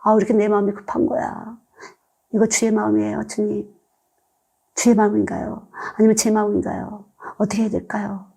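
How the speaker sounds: soft, troubled questioning in prayer; mild inner urgency. Retold or imitated. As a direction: ask God under your breath, re-enacted. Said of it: "급해져요". (조급한 마음으로 나직이 묻는 기도)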